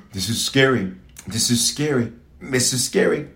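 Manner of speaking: low, hushed mock fright; acted fear. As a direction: murmur it like frightened disciples. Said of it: "it created a fear in them".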